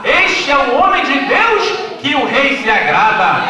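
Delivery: slow, loud proclamation; forced shout. Pretend. Haman forced by the crowd to shout, loud proclamation. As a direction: cry it out slowly as ordered. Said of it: "Ele teve que gritar".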